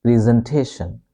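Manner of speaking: "presentation" as PREE-zen-TAY-shun; American-style long EE opening "presentation"; American pronunciation. Shown as a demonstration. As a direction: say "presentation" with a long EE in the first syllable. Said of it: "becomes double E sound".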